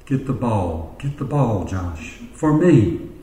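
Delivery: lightly imitated sultry coaxing, mostly low; a touch of seductive pleading. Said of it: "in a very sultry voice".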